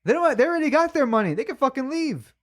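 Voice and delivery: indignant but cracking up; laughing rant. Real, not acted.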